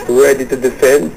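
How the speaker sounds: slow, measured re-asking. Real, not acted. Host re-asks the caller who said "ano?", slowly. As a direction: repeat it slowly for someone who missed it. Repeats question after caller didn't catch it.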